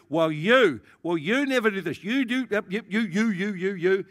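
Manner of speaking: imitated finger-pointing accusations, piling up; mock accusing. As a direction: hammer out each "you", mimicking an accuser. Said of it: "They'll start accusing you".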